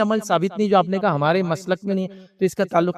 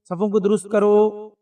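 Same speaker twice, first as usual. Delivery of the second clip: slow, drawn-out call to the congregation; row announcement; slower than usual. Retold or imitated. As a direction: call it out slowly before prayer. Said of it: "اعلان کرتے". (آہستہ، کھینچا ہوا اعلان)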